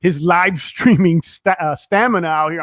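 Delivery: tired stumbling over words; stuttering. Real, not acted. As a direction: trip over the words, worn out. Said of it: "I'm stu-, uh, stuttering".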